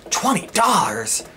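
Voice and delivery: high, drawn-out redneck disbelief; redneck woman yelling. Retold or imitated. Redneck seller startled by the offer, high slow yell. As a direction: stretch it out high, as a stunned redneck. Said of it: "kept yelling that over and over".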